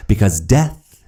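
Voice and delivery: anguished cry. A narrator's reading. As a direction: cry it out slowly in despair. Dramatic outburst.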